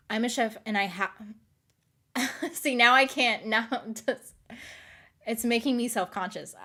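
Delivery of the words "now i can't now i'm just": ordinary talk, nothing marked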